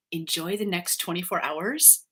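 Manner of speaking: slow, ominous read; a slow hint of menace; vaguely threatening. Shown as a demonstration. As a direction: make a friendly wish sound like a threat. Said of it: "sounds vaguely threatening".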